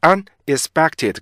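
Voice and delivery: "unexpected" slowly in separated chunks; heavy, stiff misreading. Shown as a demonstration. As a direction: say "unexpected" stiffly, pausing after un. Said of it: "굉장히 무겁고 딱딱하고". ("unexpected"를 무겁고 딱딱하게 끊어서)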